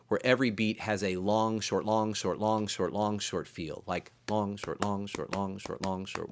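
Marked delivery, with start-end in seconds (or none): 1.2-6.3 long-short spoken ever softer; fading long short long short; dotted rhythm feel. Shown as a demonstration. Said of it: "dotted rhythm feel".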